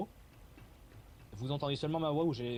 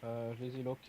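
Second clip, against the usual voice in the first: disguised deep voice. Real, not acted. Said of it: "ton modificateur de voix qui est un peu buggé".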